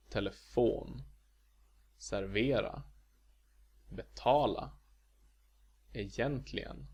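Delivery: Telefon, servera, betala, egentligen, stressed after the first syllable; Swedish accent one. Shown as a demonstration. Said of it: "where the stress is not on the first".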